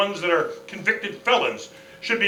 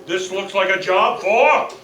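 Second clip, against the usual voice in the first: echo effect; 3 semitones higher, 4 dB louder than usual. Acted. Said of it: "fantastic, tastic forefathers, fathers, fathers".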